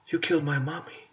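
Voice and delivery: put-on whiny little-kid voice, soft; mock a kid crying for mommy; mock childish whine. Mocking Tony over the video, childish whine. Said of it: "he's just like".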